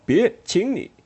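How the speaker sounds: high, loud desperate plea. Acted. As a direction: beg her to stop. Tom pleading loudly.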